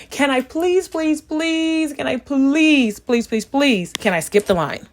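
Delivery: high, drawn-out pleading please; whiny begging to an airport employee. Retold or imitated. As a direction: beg like a desperate kid. Begging employee to skip line.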